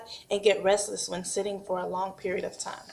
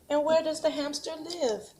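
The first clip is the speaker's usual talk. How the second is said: put-on 1 sing-song prompt to a child; 7 semitones higher than usual. Shown as a demonstration. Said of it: "You're gonna say".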